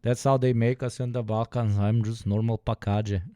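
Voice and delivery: half-joking protest rising to a loud high cry; mock protest. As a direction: play it as a growing half-joking objection. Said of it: "I'm like".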